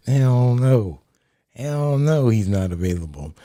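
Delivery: loud laughing shout of refusal. Real, not acted. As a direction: belt out a scoffing refusal.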